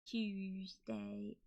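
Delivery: "Tuesday" said softly as "uzteɪ", leading T dropped; Cornish Tuesday. Shown as a demonstration. Streamer showing the Cornish way to say days. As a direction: drop the T in "Tuesday". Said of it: "we don't really pronounce things as, like, normal".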